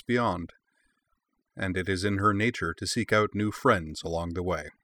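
grand, measured opening narration; epic fantasy narrator. A narrator's reading. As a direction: intone it like a legend.

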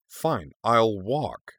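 slow, drawn-out, huffy "fine"; huffy concession. Acted. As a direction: give in with exasperation, stretching the words. Garnet storms off from argument.

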